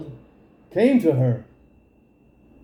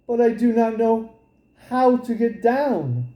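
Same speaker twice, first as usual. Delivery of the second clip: put-on lightly higher eager young girl; a young girl planning her escape eagerly; girl's voice; 5 semitones higher than usual. Rapunzel telling the king's son her plan, lightly girlish. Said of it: "She said".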